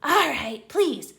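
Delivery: high, loud gleeful jeer; spring the trick on Filch; taunting Peeves. Acted.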